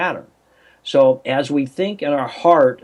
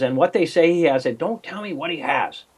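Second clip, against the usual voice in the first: quoting himself; 5 semitones higher than usual. Retold or imitated. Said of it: "Well, she says".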